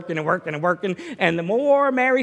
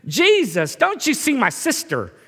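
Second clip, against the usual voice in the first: mock complaint; 5 semitones higher, 4 dB louder than usual. Martha complaining to Jesus.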